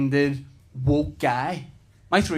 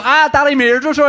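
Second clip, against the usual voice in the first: put-on high, loud child's wail to Daddy; mock child's complaint, pitched way up; complaining small son; 11 semitones higher, 7 dB louder than usual. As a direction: imitate a little boy crying out in discomfort. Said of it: "and he's so".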